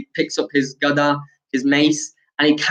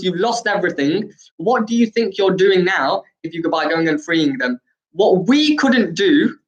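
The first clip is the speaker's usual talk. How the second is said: mildly indignant, pitched higher; retold fuming; 4 semitones higher than usual. Bhim protesting to his big brother, mildly fuming. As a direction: argue in heated disbelief, without shouting. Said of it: "Bhim's just fuming. He's thinking".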